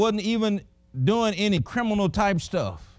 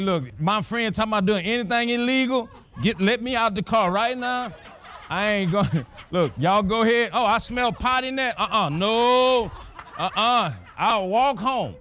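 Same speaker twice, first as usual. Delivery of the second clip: higher, laughing retold refusal; 3 semitones higher than usual. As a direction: tell it through chuckles. Retelling refusing the car, laughing.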